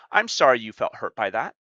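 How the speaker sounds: a hint of a smug fake-sorry manipulator; role-playing a manipulator. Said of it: "That's the better line".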